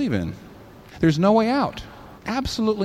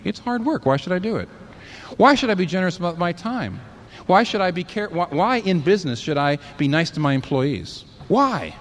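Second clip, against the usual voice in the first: mildly exasperated, higher-pitched rhetorical questions; challenging objector; 4 semitones higher than usual. Acted. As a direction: push back with a string of whys, lightly acted.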